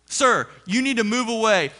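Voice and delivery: retold official command; firm order. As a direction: order someone back, imitating security. Retold guard ordering him away.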